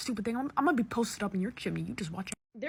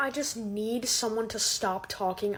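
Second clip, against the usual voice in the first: ordinary delivery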